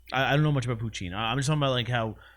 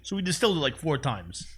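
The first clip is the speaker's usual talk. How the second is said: a hint of a folksy distiller, raised pitch; joining the Tito bit; 3 semitones higher than usual. Partner in the Tito skit bragging about distilling, lightly voiced. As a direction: brag lightly about the process.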